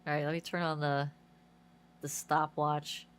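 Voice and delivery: blocked nose, stuffy voice; congested. Real, not acted. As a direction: talk through a stuffed-up nose. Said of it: "I'm congested right now".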